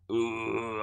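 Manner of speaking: a soft, strange vowel moan in an odd voice; retold moan. Woman's voice escaping her mouth on its own, eerie moan. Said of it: "勝手に口から声が、".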